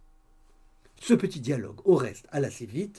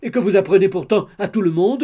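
spiteful retort, louder; 4 semitones higher, 9 dB louder than usual. A narrator's reading. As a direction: snap back at the gossip with spite. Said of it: "d'un ton de dépit". (Mlle Habert répond avec dépit)

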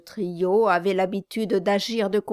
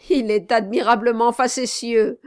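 a hint of fawning, louder; obsequious exclaim; 3 semitones higher, 6 dB louder than usual. Samson fawning over his client, lightly voiced flattery. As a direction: flatter him loudly. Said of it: "s'écria l'obséquieux Samson".

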